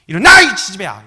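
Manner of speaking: sudden loud scolding yell; hammed-up motherly outburst; mock angry mother. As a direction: explode like mom out of patience. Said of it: "막 승질을 내시면서".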